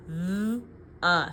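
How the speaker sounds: "th" then "uh" said alone; isolated sounds. Shown as a demonstration. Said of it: "So I know th".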